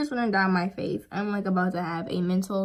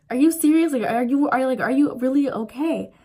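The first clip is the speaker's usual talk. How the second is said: dad surprised; 5 semitones higher, 5 dB louder than usual. Retold or imitated. Dad reacting to her tears.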